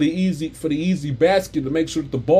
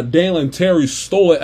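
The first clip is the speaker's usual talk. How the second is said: usual speaking voice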